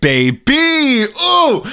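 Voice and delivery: high squeal of glee. Pretend. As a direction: let out a delighted high squeal. Sexual joke, squealing.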